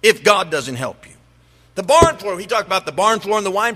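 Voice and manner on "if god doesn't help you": exasperated king. Acted. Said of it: "He says".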